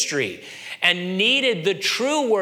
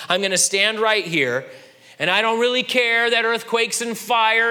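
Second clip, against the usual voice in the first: sulky stubborn Elijah; 5 semitones higher than usual. Retold or imitated.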